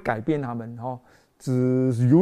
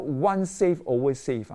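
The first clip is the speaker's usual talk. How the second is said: slow quoted slogan; slower than usual. Shown as a demonstration. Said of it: "他们叫做".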